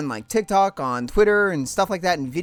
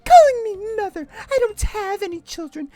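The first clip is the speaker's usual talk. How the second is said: haughty high mother; 12 semitones higher than usual. Acted. Mother Lusamine scorning Lily, high and haughty. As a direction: look down on her daughter.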